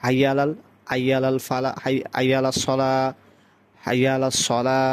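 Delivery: হাইয়া said as aiya, the h lost; wrongly weakened h. Shown as a demonstration. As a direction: start হাইয়া on a vowel, no throat h. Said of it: "হা উচ্চারণ করে না".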